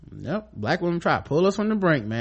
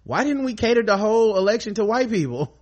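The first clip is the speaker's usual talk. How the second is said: mock whiny white voter; 6 semitones higher than usual. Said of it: "White people complain and it's".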